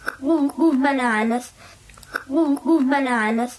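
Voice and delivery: reversed backwards speech. Shown as a demonstration. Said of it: "flip all three of ours forwards again".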